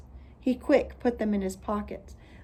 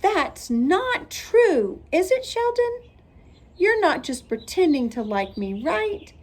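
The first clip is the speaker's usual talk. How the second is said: shocked plea; 9 semitones higher, 4 dB louder than usual. A narrator's reading. Lucille shocked, pleading.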